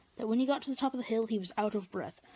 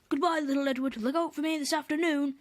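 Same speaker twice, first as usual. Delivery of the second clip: a hint of a proud big engine, a touch higher and louder; 4 semitones higher, 3 dB louder than usual. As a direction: call it out smugly over the shoulder. Gordon boasts leaving shed.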